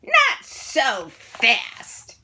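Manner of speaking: slow, menacing hiss; terrible voice. A narrator's reading. Stern new teacher halting the kids, menacing. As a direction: stop them cold with menace. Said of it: "a terrible, terrible voice".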